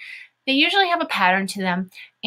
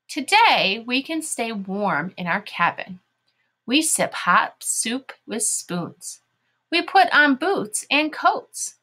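slow, deliberate read-along with lively pitch swings; teacher's measured story reading; reading to children; slower than usual. Shown as a demonstration. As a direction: lead young readers word by word.

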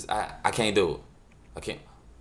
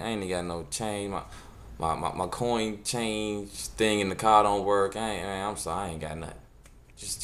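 sheepish excuse; 5 dB quieter than usual. Retold or imitated. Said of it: "I apologize and made an excuse".

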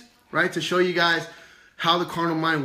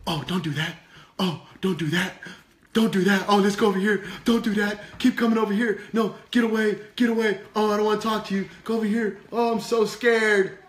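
hammed-up panicky puppet, climbing higher; fearful Pepper; 4 semitones higher than usual. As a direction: fret and shoo everyone away in mock fright. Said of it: "Oh, he's so scared".

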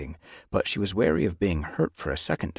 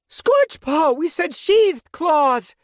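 high, loud, slow angry snap; snapping; 8 dB louder, much slower than usual. A narrator's reading. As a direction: scold the apprentice sharply. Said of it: "Crowtail snapped".

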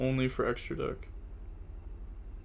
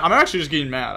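louder, exasperated complaint; frustrated outburst; 7 dB louder, much faster than usual. Real, not acted. Streamer admitting to chat he is tilted, loud and exasperated. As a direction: vent it, loud and fed up. Streamer fuming at own misplays.

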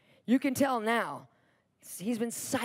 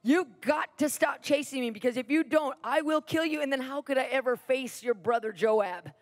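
imitated yelled warning; retold yell; 2 semitones higher than usual. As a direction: call back urgently, easing off after the first word. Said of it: "he yells back to Ashiel again".

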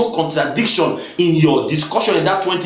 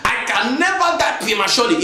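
emphatic, raised-pitch declaration; loud faith declaration; 5 semitones higher than usual. Shown as a demonstration. Preacher demonstrating loud faith to the congregation, emphatic and high. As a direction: declare it boldly, stretching out the conviction. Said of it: "is that not loud?".

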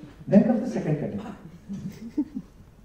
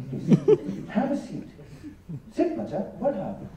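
soft, hushed, soothing welcome; a hint of a serene boss; calm and composed; 7 dB quieter, slower than usual. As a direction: settle the visitor in gently. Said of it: "a very calm and composed".

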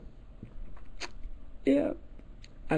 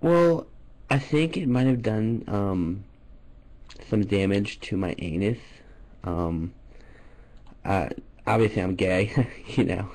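deep mock-shy caller voice; low put-on voice; 8 semitones lower than usual. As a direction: drop the voice low and play embarrassed.

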